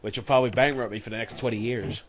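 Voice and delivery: mock American complaining accent. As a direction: keep up the joke American accent. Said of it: "like, the American style or something".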